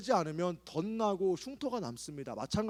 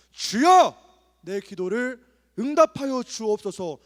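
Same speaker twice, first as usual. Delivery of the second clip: much louder, slow and pleading; crying out in prayer; 3 semitones higher, 10 dB louder, slower than usual. Shown as a demonstration. Preacher shows the youth how to cry out in prayer, loud. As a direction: cry out to God with all you have. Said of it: "할 수 있는 한".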